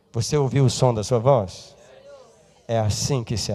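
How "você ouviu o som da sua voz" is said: ordinary talk, nothing marked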